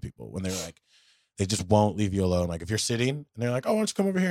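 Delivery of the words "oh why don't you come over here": higher, singsong come-over-here; a hint of a pushy friend calling him over; mock coaxing. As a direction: coax him over, lightly mocking. Imitating pushy people.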